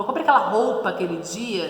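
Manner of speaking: roupa said "ropa" with no u; casual pronunciation. Shown as a demonstration. Teacher showing everyday speech, ropa. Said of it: "você não fala roupa".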